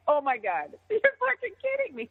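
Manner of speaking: high-pitched, laughing mock disbelief; retold disbelief. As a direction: replay your astonishment, voice shooting up. Hearing surprise approval, retold.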